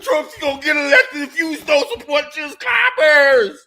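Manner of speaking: slow, whiny mock voice of a scolding critic; mocking the left. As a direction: parody a preachy leftist, slowly. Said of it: "that mentality from people that are on the left".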